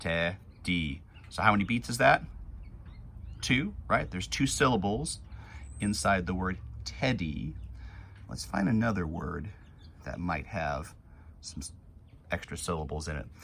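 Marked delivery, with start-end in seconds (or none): 0.0-1.0 mechanical robot voice, syllable by syllable. Teaching the class to count syllables, saying a word like a robot. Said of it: "A robot would say teddy".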